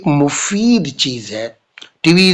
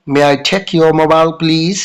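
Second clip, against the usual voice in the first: slow, careful English model line; slow model sentence; much slower than usual. Shown as a demonstration. Teacher slowly models the request for students. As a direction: say it slowly for the class to repeat. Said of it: "आप may I का जरूर प्रयोग करेंगे".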